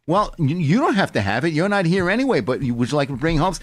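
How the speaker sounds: usual speaking voice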